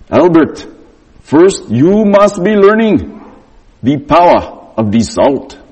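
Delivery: slow, solemn mentor voice; lightly voiced wise teacher; Raj's voice. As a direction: announce the secret like a sage. Imitating Raj's lesson.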